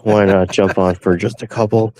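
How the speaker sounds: groggy pre-coffee voice; dry, just-woke-up throat; dehydrated voice. Real, not acted. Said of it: "You can hear it in my voice. This is the pre-coffee voice".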